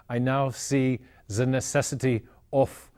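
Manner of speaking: a light imitation of Einstein's German accent; hint at a German accent without overdoing it. Historian quoting Einstein to the media, in a light German accent. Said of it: "in his heavy German accent".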